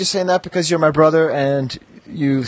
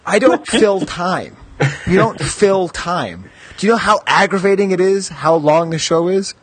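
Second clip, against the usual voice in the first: indignant protest; 4 semitones higher than usual. Real, not acted. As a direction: take umbrage, spacing the words out. Host rebuts criticism of filling time.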